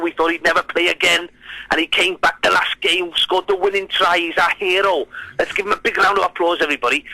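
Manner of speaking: Welsh-accented mock presentation speech; attempted Welsh accent. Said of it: "I'll try and do the accent".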